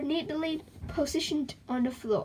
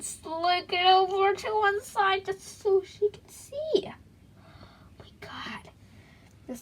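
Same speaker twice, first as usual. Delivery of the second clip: whisper; 7 semitones higher, slower than usual. Acted. Aside in a hushed voice.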